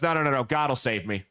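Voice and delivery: low, stubborn God will save me; stubborn refusal. Retold or imitated. Flooded man refusing his neighbor's ride, low and stubborn. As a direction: refuse flatly, sinking low.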